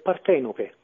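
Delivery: Partenope as par-TE-no-pe, final E sounded; Italian pronunciation. Shown as a demonstration. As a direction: stress the second syllable of Partenope, Italian vowels. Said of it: "Is it Partenope or Partenope".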